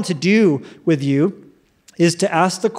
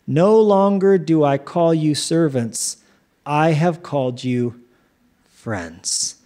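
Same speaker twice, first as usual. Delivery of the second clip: solemn scripture quote; 2 semitones lower, slower than usual. Acted. Solemn quote of Jesus, John fifteen.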